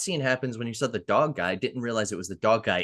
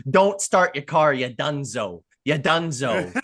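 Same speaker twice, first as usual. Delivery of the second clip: slow, louder fake Italian accent on the first line; 4 dB louder than usual. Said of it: "he would always do a fake Italian accent".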